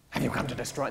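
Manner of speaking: distorted horror-movie voice; a touch of Hollywood demon rasp; lightly voiced possessed man; Freddy. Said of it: "This distorted sort of just Hollywood".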